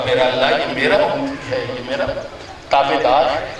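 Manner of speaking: low, soft pleading intercession; tender plea. Retold or imitated. The Prophet pleading to God for his follower, low and soft. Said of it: "جسے میرا مصطفیٰ کہے گا".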